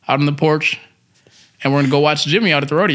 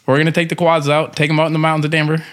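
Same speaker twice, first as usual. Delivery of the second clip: put-on light country rancher accent; easygoing cowboy storyteller voice; rancher twang. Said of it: "please do your rancher voice".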